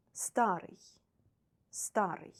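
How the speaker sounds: старый with stress on the first а; stress on first syllable. Shown as a demonstration. Teacher to students, modelling старый. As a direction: say старый as STA-ryj. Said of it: "three different endings".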